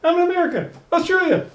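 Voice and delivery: high, teasing Homer voice; Homer taunting. Retold or imitated. Host acting out Homer at the embassy gate, high teasing. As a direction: gloat like a kid hopping a line. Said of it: "Then he steps back".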